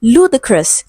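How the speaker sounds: "ludicrous" with strong LOO, weak ending; stress on first syllable. Shown as a demonstration. Teacher reads the option to students, "ludicrous" stressed on LOO. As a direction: hit LOO at the start of "ludicrous". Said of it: "stressed on the first syllable".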